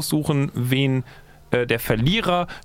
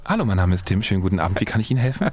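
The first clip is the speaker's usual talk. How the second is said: customer service voice; 7 semitones lower, faster than usual. Pretend. Hotline agent greeting.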